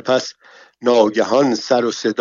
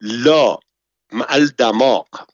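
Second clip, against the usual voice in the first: sarcastic retort; mock him with a scornful reply; 2 semitones higher, 5 dB louder, slower than usual. Lady mocking the bath servant's question, sarcastic. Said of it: "با لحن تمسخر جواب داد".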